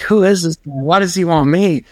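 high, baffled inner voice; mock alarm. Storyteller acts out being sought by a stranger, high alarm. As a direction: pitch it up in hammed-up bewilderment.

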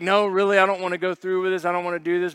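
half-joking reluctant patient voice; reluctant friend. Retold or imitated. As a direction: beg to get out of it, rushed. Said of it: "Was it like".

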